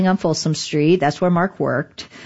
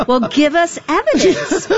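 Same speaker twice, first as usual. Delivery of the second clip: pitched way up, demanding; high mock demand; 12 semitones higher than usual. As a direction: squeak it out like an insistent plea. EFF demanding proof.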